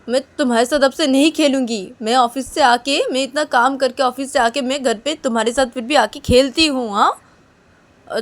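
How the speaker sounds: put-on mother sulking at her little girl, loud and high; hurt mother scolding.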